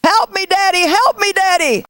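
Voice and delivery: high, urgent mock plea; acted-out child yelling for help; imitated child's scream.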